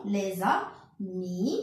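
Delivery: slow Les amis with a z sound linking to amis; slow with liaison. Shown as a demonstration. A teacher modelling the liaison slowly while decoding, Les amis as lez-amis. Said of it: "j'ai déjà fait ici la liaison".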